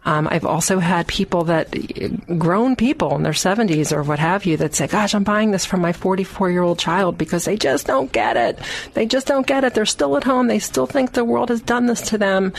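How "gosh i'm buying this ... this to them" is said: mildly exasperated, pitch climbing; fed-up parent. Retold or imitated. Grown people buying for a middle-aged child, mildly exasperated. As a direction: voice a parent's weary complaint.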